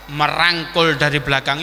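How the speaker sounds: usual speaking voice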